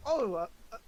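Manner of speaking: high, faltering put-on old woman; stammering old woman's sales pitch; old pastry seller. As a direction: greet a customer as a doddery street seller. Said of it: "she says".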